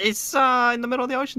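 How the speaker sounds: high joking. Pretend. Joking about the missing boat.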